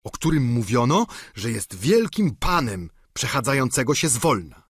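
lightly voiced simple squire, chatty and proud; Sancho voiced. Sancho tells of grandees.

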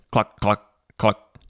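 lightly voiced clucks; a hint of a hen clucking; chickens clucking. A narrator's reading. Chickens clucking at the farmer, lightly voiced. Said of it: "When the chickens said".

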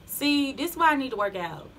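winded from coming from downstairs; out of breath. Real, not acted. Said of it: "I'm out of breath".

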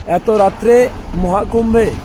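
hoarse from the cold night; rough, worn-out throat. Real, not acted. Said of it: "গলা পুরো ধরে গেছে ঠান্ডাতে".

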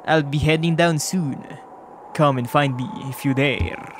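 lightly voiced fighter, deliberate and accented; Tiso's voice. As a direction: lay down a challenge in a loose fake accent. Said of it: "my accent just gets worse and worse".

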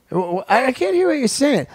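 half-hearted exasperation; mock exasperated. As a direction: pretend you can't hear them. Frustrated listener.

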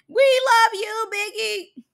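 high, loud, stretched-out mock gushing; gushing fan cheer. Reactor mocking the cast's overly fake love, sugary mock gushing.

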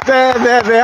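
playful bleating; goat bleat. Pretend. Imitating goats bleating.

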